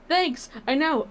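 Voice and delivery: bright high thanks; excited. Acted. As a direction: gush with delight. Character thrilled by praise.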